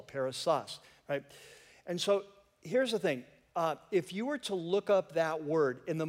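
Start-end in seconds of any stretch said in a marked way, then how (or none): 0.0-0.8 "perissos" with the accent on its last syllable; stress on last syllable. Shown as a demonstration. Preacher teaching a Greek word, "perissos" stressed on the last syllable. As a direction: land on the final syllable of "perissos". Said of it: "accent on the last syllable".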